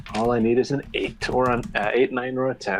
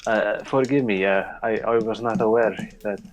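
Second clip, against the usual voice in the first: a light put-on Icelandic accent, apologizing; faint Icelandic accent, sheepish and polite; mock Icelandic accent. Player's character says sorry to tourists in mock Icelandic accent. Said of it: "I'll keep my shitty Icelandic accent".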